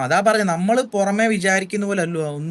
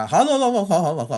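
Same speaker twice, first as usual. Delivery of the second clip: higher, hammed-up "ho ho ho" actor laugh; mock Lalu Alex laugh; 4 semitones higher than usual. Teasing a friend on a call for copying an actor, mock laugh. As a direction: tease him by aping a film star's chuckle. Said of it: "Lalu അലക്സിന്റെ ഫിഗറും പിടിച്ചോണ്ടിരിക്കാതെ".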